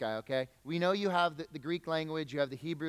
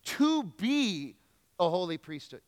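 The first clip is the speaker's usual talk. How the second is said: "To be" raised and punched, then a holy priesthood settles back; stress on TO BE. Shown as a demonstration. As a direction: make "To be" ring out above the rest. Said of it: "the E S V helps us a little bit here".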